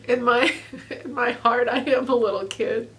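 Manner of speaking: real delighted laugh running through the words; giddy laughter. Real, not acted. Giddy about bike accessories.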